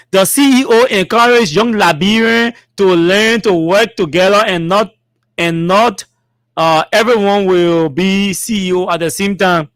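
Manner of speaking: measured read-aloud; formal statement reading. Acted. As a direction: read each phrase out deliberately.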